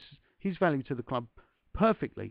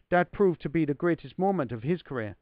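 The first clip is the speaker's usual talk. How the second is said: put-on Irish accent; 2 semitones higher, 4 dB louder than usual. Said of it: "my Irish accent is really poor".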